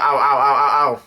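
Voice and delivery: mock cries of "ow"; rapid-fire pretend yelps of pain; imitated yelps. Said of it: "Brulette yells out".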